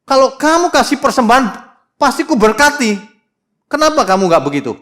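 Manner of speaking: God venting his anger at the cheating nation; angry God. Acted. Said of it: "Ini Tuhan marah-marah loh". (Tuhan menegur dengan marah, tinggi dan keras)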